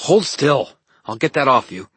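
high, loud order; sharp command. Acted. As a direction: snap the order out. Elaine ordering him to hold still.

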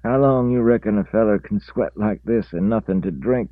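put-on high, loud country old man; twangy old feller; rural old man voice. A narrator's reading. Reese's quote voiced in story.

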